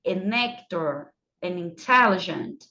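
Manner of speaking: "an actor", "an intelligent" said slowly, n linked on; slow linked examples. Shown as a demonstration. Teacher recapping the rule, slow and clear. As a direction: model each link slowly. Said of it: "Então, fica an old".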